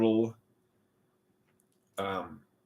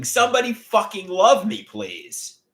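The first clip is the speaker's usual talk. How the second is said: mock scream; 7 semitones higher, slower than usual. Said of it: "just start screaming".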